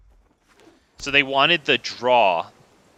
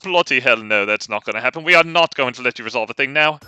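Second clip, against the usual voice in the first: smug British. Retold or imitated. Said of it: "kind of a smug British".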